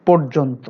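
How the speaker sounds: পর্যন্ত with first vowel o, "porjonto". Shown as a demonstration. Teacher giving an example of the rule, o-sound পর্যন্ত. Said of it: "ওকারের মতো হয়".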